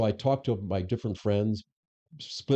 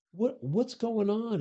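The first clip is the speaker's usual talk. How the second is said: high, slow, incredulous question; retold disbelief; 13 semitones higher, much slower than usual. Boss phoning the union head after betrayal, stunned and slow. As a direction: stretch it out in disbelief. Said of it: "I call him up and I said".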